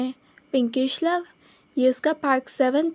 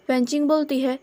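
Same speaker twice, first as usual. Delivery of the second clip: ordinary delivery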